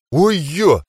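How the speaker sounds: high startled exclamation; surprised gasp. Acted. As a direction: blurt it in surprise. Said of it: "От удивления я на мгновение застыл".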